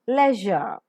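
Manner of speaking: "leisure" as lezh-uh, short first vowel; practice model pronunciation. Shown as a demonstration. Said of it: "Let's practice".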